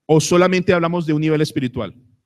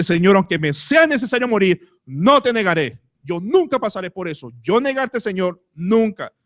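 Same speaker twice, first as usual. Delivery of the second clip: Pedro's proud, higher-pitched protest; bold Pedro; 5 semitones higher than usual. Acted. Pedro vowing to the Lord, bold higher bravado. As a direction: play the brash disciple swearing he never will. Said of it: "el furioso, el fuerte y el atrevido Pedro".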